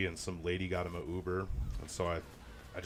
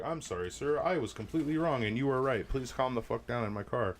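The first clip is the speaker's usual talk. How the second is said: higher, louder overdone politeness; mock apology; 5 semitones higher, 4 dB louder than usual. Driver mock-apologizing to the raging drunk rider, sarcastic and higher. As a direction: grovel sarcastically, pitched up.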